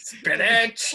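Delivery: high Popeye voice; vintage cartoon voice. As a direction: squeak Spinach like Popeye. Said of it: "an impression of a cartoon character".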